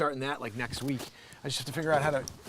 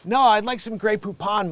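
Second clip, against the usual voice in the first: loud, higher-pitched retort; mock indignation; 6 semitones higher, 7 dB louder than usual. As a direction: fire back in mock outrage. Acted customer snaps at chef.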